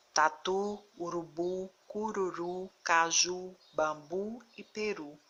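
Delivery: taTU, uruBU, peRU, weight on the final U; stress on last syllable. Shown as a demonstration. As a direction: read Tatu, urubu, caju as a list, each last syllable strong. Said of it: "a última sílaba é pronunciada com mais força". (Tatu, urubu, peru com a última sílaba forte)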